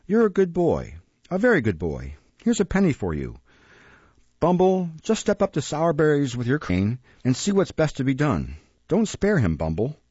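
lightly voiced gentleman, lively rise and fall; a hint of a benevolent man of authority; approving gentleman. Gentleman praising a boy and sending the beadle to punish, lightly approving.

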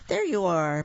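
mild happy exclamation; light relieved storybook exclaim. Acted. Papa finding lost Lawrence, mildly relieved exclaim. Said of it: "Papa exclaimed".

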